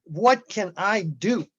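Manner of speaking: slow, every word of "What can I do?" leaned on, ending on a rise; emphatic. Real, not acted. The speaker rallying the call to act, slow and emphatic. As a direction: hammer home "What can I do?" deliberately. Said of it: "I'm really emphatic here".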